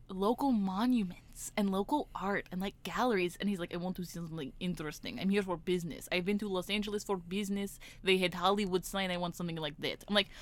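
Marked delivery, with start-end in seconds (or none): 3.7-10.0 softly imitated Greek caller's accent; a hint of a put-on Greek accent; foreign caller. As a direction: mimic a Greek tourist's stiff English. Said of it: "I know a Greek guy".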